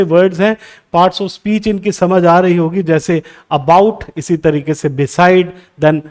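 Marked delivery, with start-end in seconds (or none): 3.5-4.0 slow "about" as a-BOUT; second-syllable stress. Shown as a demonstration. Teacher lists prepositions, "about" stressed on its second syllable. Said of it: "आपका stress use होगा second syllable पे". 4.9-5.5 slow "beside" as be-SIDE; second-syllable stress. Shown as a demonstration. Teacher lists prepositions, "beside" stressed on its second syllable. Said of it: "आपका stress use होगा second syllable पे".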